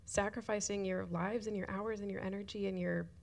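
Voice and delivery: choked up, half whispered, words breaking into tears; tearful thanks. Real, not acted. Thanking the volunteers who serve on Sundays, tearful and half whispered. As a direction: thank them while fighting back real tears. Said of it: "sorry that I'm crying".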